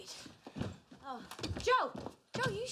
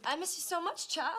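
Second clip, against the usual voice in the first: put-on old Southern woman. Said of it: "why is she talking like an old Southern woman".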